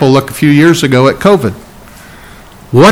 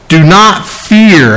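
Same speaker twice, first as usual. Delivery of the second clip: slow, drawn-out DO NOT FEAR; "Do not fear" weighed out word by word; emphatic; 3 semitones higher, much slower than usual. Real, not acted. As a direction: stretch each word of "Do not fear", pitched a touch up. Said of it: "It's very emphatic".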